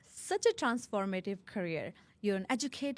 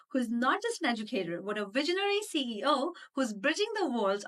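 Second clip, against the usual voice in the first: animated, emphatic show intro; podcast intro read; 3 semitones higher than usual. Acted. Host introducing her guest to the audience, upbeat announcer read. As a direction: introduce the guest with punched key words.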